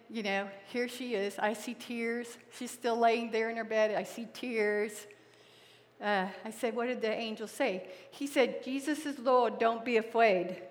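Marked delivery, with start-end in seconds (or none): 1.4-10.6 soft, tender retelling. Real, not acted. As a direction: hush your voice with tenderness. Tender bedside memory.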